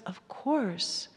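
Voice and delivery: soft, hushed "of course"; gentle self-comfort. Shown as a demonstration. Parent soothing their own fear, hushed and gentle. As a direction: reassure yourself softly. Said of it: "say to ourselves".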